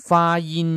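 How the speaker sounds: teacher's clear word call; vocabulary model word. Shown as a demonstration. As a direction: present ฟ้ายิน clearly for the class. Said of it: "แปลว่าออกเสียง".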